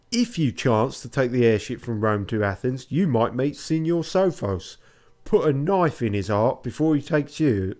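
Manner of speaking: a lightly voiced Cockney grudge. Fiammetta warns the stranger about Sophos, light Cockney accent. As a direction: spit the threats in easy Cockney. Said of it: "she's Cockney too".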